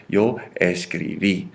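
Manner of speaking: slow "escribí", landing on the final í; stress on final I. Shown as a demonstration. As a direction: stretch "escribí" out to its accented ending. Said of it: "Do you see that accent?".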